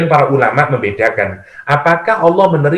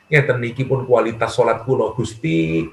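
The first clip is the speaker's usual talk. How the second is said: humble prayer; 3 semitones lower, 6 dB quieter than usual. Acted. Humble prayer quoted in sermon.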